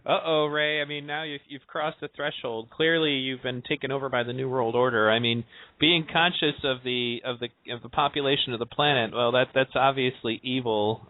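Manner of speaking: mock alarm, lightly sarcastic. Teasing Ray about the New World Order, sarcastic. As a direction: play at accusing, with dry sarcasm. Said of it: "I'm being sarcastic".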